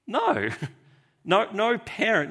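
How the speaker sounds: emphatic no. Real, not acted. Rejecting the imagined parent.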